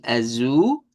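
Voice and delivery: "azul" ending in a U-like L; Portuguese azul. Shown as a demonstration. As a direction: model "azul" with the final L as U. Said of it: "en realidad hay dos U ahí".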